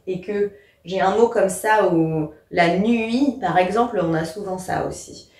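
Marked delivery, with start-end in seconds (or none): 2.5-3.4 "nuit" slowly in two syllables, nu-it; insisted diaeresis. Shown as a demonstration. Teacher showing a word to insist on, "nuit" split nu-it. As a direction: stretch "nuit" so u and i are separate vowels. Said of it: "il va falloir que j'insiste dessus".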